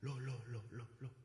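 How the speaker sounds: soft startled "loh" repeated; shocked exclamation. Retold or imitated. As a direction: react in disbelief. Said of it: "Kata saya". (kaget, "loh" diulang pelan)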